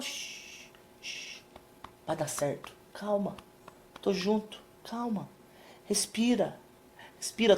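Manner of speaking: calm her breathing down gently; gentle hushing. Retold or imitated. Husband quietly calming his wife, soft hushed.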